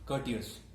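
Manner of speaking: courteous said as kur-tee-us with no R sound; R silent in courteous. Shown as a demonstration. Teacher showing students that courteous has a silent R. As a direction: leave out the R in courteous. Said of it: "R is silent, so we are going to pronounce it".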